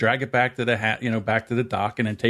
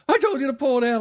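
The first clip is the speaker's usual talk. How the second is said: annoyed; 13 semitones higher, faster than usual. Retold or imitated. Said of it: "He's like".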